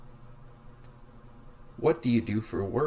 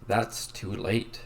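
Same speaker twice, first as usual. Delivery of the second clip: slow, announced lesson title; slow title read; 3 semitones lower, slower than usual. Shown as a demonstration. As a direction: read it out slowly like a chapter heading. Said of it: "Lesson seven".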